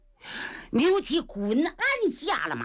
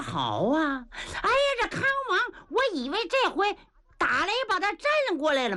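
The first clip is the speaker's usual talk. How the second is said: grieving rage; 5 semitones higher than usual. Acted. Uncle hears nephew will be executed.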